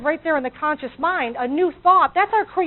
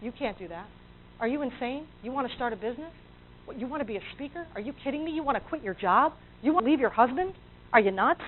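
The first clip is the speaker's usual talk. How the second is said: much softer, scoffing put-down; negative inner voice; 8 dB quieter than usual. Retold or imitated. Inner critic mocking a new idea, soft scornful voice. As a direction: sneer at your own dream, quietly. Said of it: "gets the crap kicked out of it by your negative thoughts".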